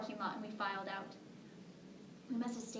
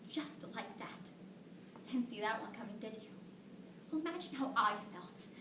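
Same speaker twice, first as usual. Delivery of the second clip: hushed, heavy grief; tragic heroine sorrow. Acted. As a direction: let the words sink, barely voiced. Telling of daughter's death.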